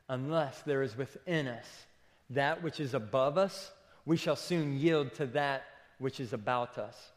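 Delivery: slow, weighty quote reading; quote read slowly. Shown as a demonstration. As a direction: lay the quote down slowly, word by word. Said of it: "He says this".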